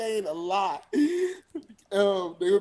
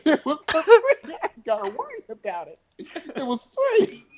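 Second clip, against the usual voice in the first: high, laughing boast about free stuff; giddy bragging; 11 semitones higher than usual. Retold or imitated. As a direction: gloat with a giggle.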